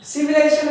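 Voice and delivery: "সিভিলাইজেশন" in five separate beats; short pauses between সি, ভি, লাই, জে, শন; split into syllables. Shown as a demonstration. Teacher showing how it divides, "সিভিলাইজেশন" split up. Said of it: "পাঁচটা সিলেবেলে ভাগ করা".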